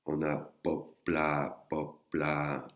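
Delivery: popla said level and slowly, unaspirated P; mid tone popla. Shown as a demonstration. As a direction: popla with plain mid intonation. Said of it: "ça, intonation normale".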